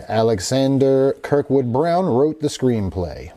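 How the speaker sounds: horror-movie news presenter delivery; news read. Real, not acted. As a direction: read it out like an entertainment news item. Reads article and quote.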